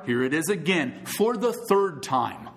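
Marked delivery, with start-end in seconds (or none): 1.0-2.5 "the" drawn out, slow and even; slowed count for the congregation; slow emphasis. Shown as a demonstration. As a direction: stretch it out deliberately. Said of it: "emphasis here?".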